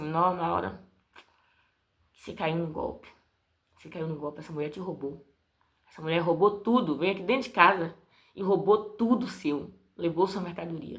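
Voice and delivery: husband voice. Retold or imitated. Husband telling his wife she was robbed, low and hushed.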